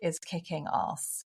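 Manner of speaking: slow British "kicking arse"; very British accent. Real, not acted. Guest summing up her answer, very British accent. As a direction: land "ass" slowly as a British "arse". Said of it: "in my very British accent".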